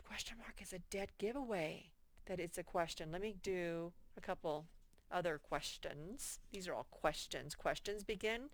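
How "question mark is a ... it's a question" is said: fast whispered aside. Real, not acted. Quick aside to class.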